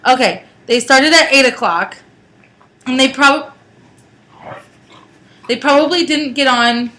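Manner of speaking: jostled by car bumps; on a bumpy road. Real, not acted. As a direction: speak over a bumpy ride. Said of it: "Sorry for the bumps".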